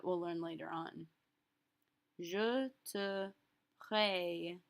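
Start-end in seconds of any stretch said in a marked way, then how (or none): 2.2-4.6 "présente" split slowly, its first vowel a clear ay; accent aigu demo. Shown as a demonstration. Teacher showing the A sound in "présente", broken up slowly. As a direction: pause between syllables to expose the é in "présente". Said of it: "also makes the A sound".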